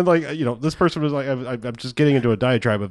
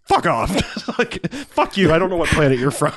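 mock fury; 3 semitones higher than usual. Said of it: "I'm like".

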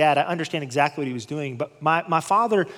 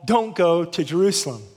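begging. Retold or imitated. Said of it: "begged Paul".

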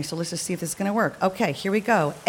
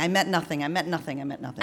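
softer and softer, lower each time; fading away; 5 semitones lower, 5 dB quieter, faster than usual. Shown as a demonstration. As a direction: let it trail off into nothing. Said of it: "repeated, fading each time".

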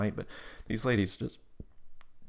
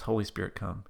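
slightly softer echo of the prompt; repeated prayer line; 4 dB quieter than usual. Retold or imitated. Tab repeating the prayer, lightly voiced echo. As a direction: repeat it back obediently, understated. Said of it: "repeat after me prayer".

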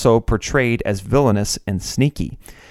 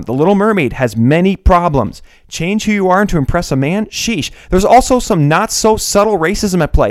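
higher, rereading in mock disbelief; staged astonishment while rereading the text; incredulous re-read; 6 semitones higher than usual. Shown as a demonstration. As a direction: read it back as if you can't believe the words. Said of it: "I'm gonna go back and read these again. I cannot believe my eyes".

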